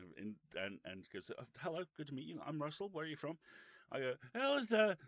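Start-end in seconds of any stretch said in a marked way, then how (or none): 1.4-3.4 lightly voiced booming greeting, higher and quick; higher, quick meet-and-greet, slightly put on; retold Russell T Davies. Davies greeting young journalists one by one, higher and quick. 4.3-5.0 high, loud, overawed greeting; starstruck mock squeal. Baby journalist greeting the huge showrunner, starstruck squeal.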